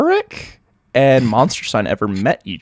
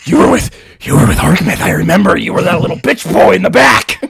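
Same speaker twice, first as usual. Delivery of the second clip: mock taunt; 4 semitones higher, 4 dB louder than usual. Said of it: "And goes".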